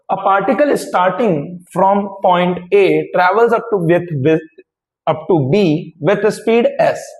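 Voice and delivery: reads the question word by word, very slowly; slow dictation. Shown as a demonstration. Teacher reading a physics question aloud to students, very slow dictation. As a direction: dictate each phrase slowly so students can write it down.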